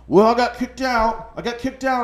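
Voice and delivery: high-pitched, loud indignant yell; mock yelling. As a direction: yell it out to his friends like he can't believe it. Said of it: "he's, like, yelling at his friends".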